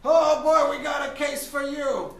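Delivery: loud, high, hammed-up Mexican accent; brash swaggering lawyer with a big Mexican accent, shouting. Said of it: "I don't know why I'm Mexican".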